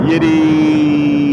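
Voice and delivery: squeaked very high and loud; squeaky tease. Real, not acted. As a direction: squeal the question as a playful jab. Teasing punchline after laughing.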